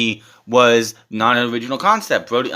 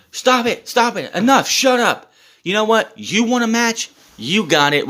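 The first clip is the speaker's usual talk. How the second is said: MJF impression; slower than usual. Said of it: "So, M J F's like".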